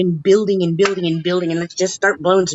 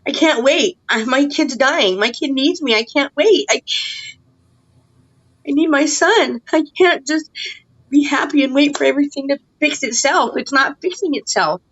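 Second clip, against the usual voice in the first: higher-pitched, upset plea for her son; frustrated pleading; 4 semitones higher than usual. Real, not acted. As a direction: plead urgently, real frustration in the voice. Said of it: "I'm, I'm, I'm frustrated".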